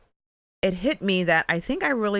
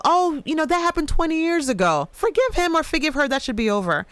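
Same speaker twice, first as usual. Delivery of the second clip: mock dismissive preacher; 8 semitones higher than usual. Mocking churches dismissing trauma.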